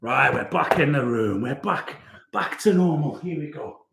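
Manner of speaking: breathless after exertion; out of breath. Real, not acted. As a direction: talk while catching your breath. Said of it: "I'm really out of breath".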